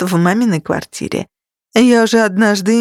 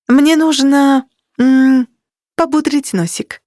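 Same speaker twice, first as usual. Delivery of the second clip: drawn-out tipsy politeness; slowly, mock-delicate excuse; prim slow euphemism; 5 semitones higher than usual.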